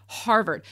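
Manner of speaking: "Harvard" as a pointed standalone word; "Harvard" set apart for effect; emphatic Harvard. Real, not acted. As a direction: repeat "Harvard" with deliberate emphasis. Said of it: "I keep saying it like that".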